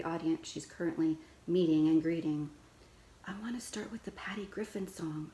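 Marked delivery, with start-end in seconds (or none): 3.3-5.3 hushed unvoiced whisper. A narrator's reading. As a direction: whisper it so only Mom hears. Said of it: "I whisper".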